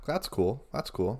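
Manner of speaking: low, halting cool-guy voice; put-on cool voice. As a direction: drop your voice to sound cool. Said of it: "I'm trying to play it cool".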